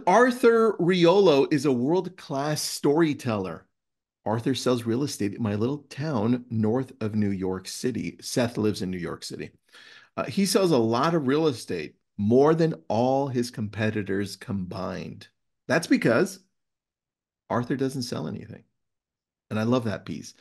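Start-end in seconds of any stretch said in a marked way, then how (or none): 0.1-8.2 story read-aloud. Acted. Host reading a favourite book passage to listeners, measured read-aloud. 10.2-18.6 story read-aloud. Acted. Host reading a favourite book passage to listeners, measured read-aloud.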